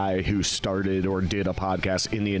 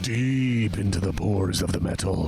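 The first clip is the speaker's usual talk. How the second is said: upbeat sponsor read, mostly his own voice; lightly pitched-up commercial read. Acted. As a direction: sell the product like a host-read ad. Reading sponsor ad copy.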